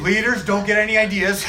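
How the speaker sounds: giggling warning to leaders; laughing. Real, not acted. Joking while laughing.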